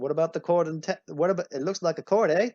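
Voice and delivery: badly faked Canadian with a questioning "eh"; mock Canadian accent. Teacher as a Canadian suggesting a name, mock Canadian accent. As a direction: tack on a hammy Canadian "eh". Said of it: "yeah, it's a terrible accent".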